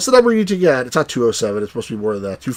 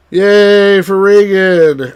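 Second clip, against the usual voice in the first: drawn-out cheer; 3 semitones higher, 5 dB louder, much slower than usual. Real, not acted. Cheering for Reagan.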